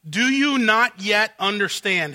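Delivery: slow, loud and indignant; outraged servants. Acted. Servants rebuking Pharaoh, slow and indignant. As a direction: lean hard on each word in disbelief. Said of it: "here's their outrage".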